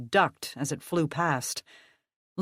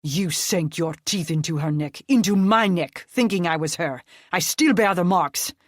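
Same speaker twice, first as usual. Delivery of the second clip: angry accusation; 5 dB louder than usual. Acted. Nick accusing in rage.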